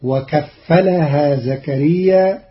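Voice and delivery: وكفلها said with a light unstressed fa, wakafalahā; وكفلها read with a light fa; Qalun reading. Shown as a demonstration. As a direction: say وكفلها without doubling the fa. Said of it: "قرأ قالون كلمتي".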